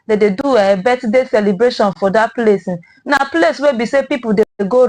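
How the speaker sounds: Nigerian Pidgin news delivery. Real, not acted. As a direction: read the news in Naija Pidgin. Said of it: "our Pidgin Headline Review".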